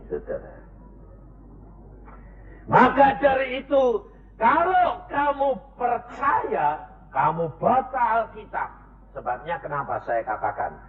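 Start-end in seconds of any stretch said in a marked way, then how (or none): 2.7-8.7 preaching exhortation. Acted. Rising exhortation.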